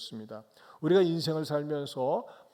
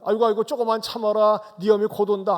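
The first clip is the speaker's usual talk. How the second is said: put-on louder hushing of a crying baby; soothing grandfather; 6 semitones higher, 9 dB louder, faster than usual. Grandfather hushes the crying grandson, louder coaxing. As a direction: coax the baby, promise mother's coming.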